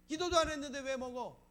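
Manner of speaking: loud, high mock accusation; acted angry reproach. Diner to the one who ate before praying, acted angry reproach. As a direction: burst out as if cheated of food. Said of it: "화가 나니까".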